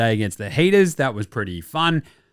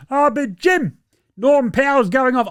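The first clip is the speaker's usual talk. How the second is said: higher, whiny imitation of an arguing fan; mock fan voice; 9 semitones higher than usual. Imitating an imagined fan who interrupts the host, high and whiny. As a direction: play the pestering fan, pitched up and nagging.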